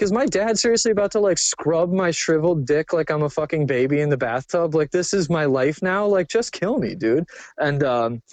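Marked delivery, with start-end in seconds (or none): 0.0-7.3 despairing inner voice. Retold or imitated. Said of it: "I was like".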